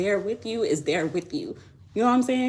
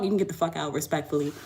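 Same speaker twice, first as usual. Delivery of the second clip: ordinary delivery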